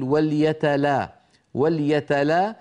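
slow وليتلا with a light, thin lam. Shown as a demonstration. Teacher isolating the light lam for students. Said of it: "ينطق اللام مرققة".

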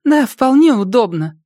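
high eerie voice of a chat user. Acted. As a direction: speak high and thin, like a typed message. Anomie voice in chat. (высокий голос из чата)

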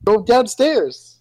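slow, high, loud command; yelling across the room. Real, not acted. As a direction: bark it slowly and high. Shouted argument about spoons.

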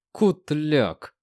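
muttered curse through teeth; cursing under breath. A narrator's reading. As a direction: swear through clenched teeth. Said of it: "выругался Ренат сквозь зубы".

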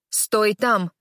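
loud growled order; growling. Acted. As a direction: snarl a stop order. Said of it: "рычит королева".

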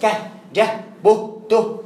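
"ك، جه، ب، ت" as short syllables kah, jah, buh, tuh; voweled letters with h. Shown as a demonstration. Teacher giving examples, "ك، جه، ب، ت" each ending in h. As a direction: close each of "ك، جه، ب، ت" on h. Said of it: "ونزله في الإجابة وحط إيه؟".

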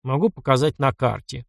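plain reading voice

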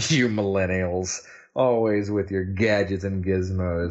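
put-on slow grumbling old man. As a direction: scold like a cranky grandpa. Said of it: "a very old man thing to say".

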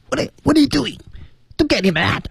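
从嗓子眼儿里挤出来的高尖声音; squeezed throat voice. Shown as a demonstration. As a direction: squeeze it high out of the throat, comic. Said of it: "你要把那个嗓子压回去". (模仿鸟从嗓子眼儿挤出的声音)

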